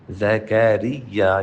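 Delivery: زکریا with a thin, light ra, drawn out slowly; thin broken ra. Shown as a demonstration. Tajweed teacher showing the thin ra in زکریا. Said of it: "یہاں پہ بھی را ہے لیکن یہ را بریک ہے".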